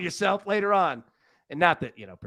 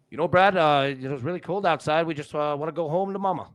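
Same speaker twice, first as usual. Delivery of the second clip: put-on lightly done Canadian accent. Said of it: "try Canadian now".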